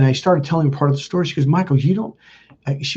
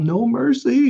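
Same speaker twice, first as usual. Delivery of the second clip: put-on high tearful sobbing, barely managed; 8 semitones higher than usual. Retelling begging the mother on knees: imitating own past tearful plea. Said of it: "I barely got that out".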